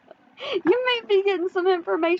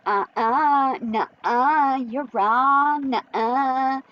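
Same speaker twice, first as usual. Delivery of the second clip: childish mock reply; much slower than usual. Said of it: "little kindergarten thing".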